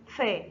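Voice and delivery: فا sounded out as a model syllable; فا with fatha. Shown as a demonstration. Teacher showing learners fa with fatha, فا sounded out. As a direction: say فا as f plus an open front a. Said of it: "الفاء فوقها فتحة تنطق".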